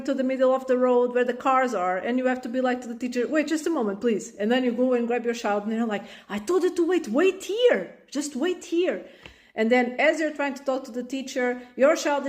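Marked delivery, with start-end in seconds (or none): 3.3-4.3 rushed, higher wait; hurried. Acted. Mom hurried, to teacher. 6.3-9.0 put-on higher, firm scolding of a child; stern scolding. Mom grabs child off road.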